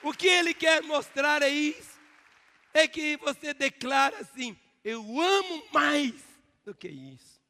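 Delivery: high, loud shouted preaching; full-force preaching. Acted. Pastor shouting to the congregation that they are in church, full-force preaching.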